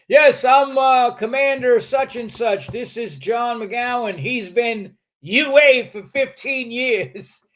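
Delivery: mock officer reporting in. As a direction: announce him like a stiff officer. Officer announcing him to commander.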